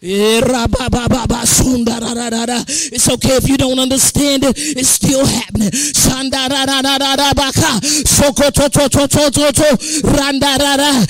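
praying in tongues. Real, not acted. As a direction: babble the syllables in prayer.

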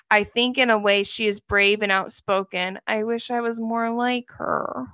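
even, measured reading of a message; reading aloud. Real, not acted. Co-host reading out Kendra's message, steady reading-aloud voice. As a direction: read it out steadily from the text.

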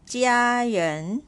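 "家人" with 家 high and level, 人 rising; first then second tone. Shown as a demonstration. Teacher reads test word eight, first then second tone. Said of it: "second tone on top".

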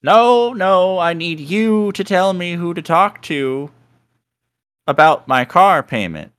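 high, loud, pushy woman caller; demanding caller. Retold or imitated. Wrong-number caller demanding help, high and loud. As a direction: insist like a desperate caller who won't hang up. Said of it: "And she's like".

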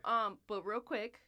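high, gushing fan; starstruck fan voice. Pretend. Mock fan meeting celebrity.

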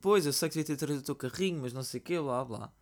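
apologetic excuse. Retold or imitated. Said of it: "a desculpar com a cena".

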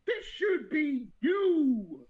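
loud, drawn-out laughing cry; mock anguished howl through laughter; laughing wail. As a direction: wail it while cracking up. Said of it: "Griffith is just thinking".

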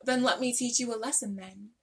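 lightly attempted British accent. Shown as a demonstration. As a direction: have a careful go at sounding British. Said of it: "maybe I'm British".

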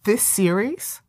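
very slow, ominous dramatic reading; ominous comment reading. Acted. Host reading a viewer's grave warning, very slow and ominous. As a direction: read it like a doom prophecy, slowly. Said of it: "It was".

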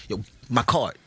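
hesitant, halting mock stutter; imitated stutter. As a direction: get stuck before getting the words out. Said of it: "He had that stutter?".

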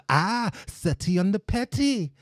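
drawn-out taunt. Retold or imitated. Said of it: "he does".

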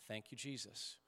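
soft, slow and hushed; slow breath prayer. Shown as a demonstration. A pastor leading a repeated breathing prayer, soft and slow. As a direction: pray it slowly, barely above a breath. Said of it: "we do that five times".

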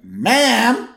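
high, loud mock call. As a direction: shout to get her attention. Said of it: "He's like".

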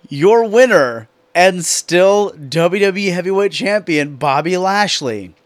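slow, drawn-out announcer call, lightly done; a hint of a ring announcer, stretched out.

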